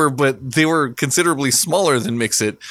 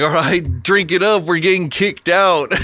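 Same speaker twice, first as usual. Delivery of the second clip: quoted with a raised, urgent push; urgent warning; 5 semitones higher than usual. Retold or imitated. Mix-It telling friends to drink up fast, urgent. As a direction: hurry everyone along, half amused. Mix-It announces they're being ejected.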